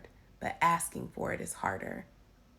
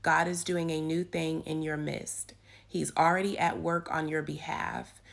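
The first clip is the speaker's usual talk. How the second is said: devotional reading. Acted. Reads the devotional aloud.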